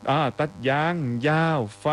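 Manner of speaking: very slow, drawn-out reading of ตัดยางยาวไฟ; slow halting read. Shown as a demonstration. DJ slowly puzzling out a listener's comment ตัดยางยาวไฟ. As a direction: spell out ตัดยางยาวไฟ word by word, very slowly, puzzling over it. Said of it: "อ๋อ ตัดยางยาวๆไป".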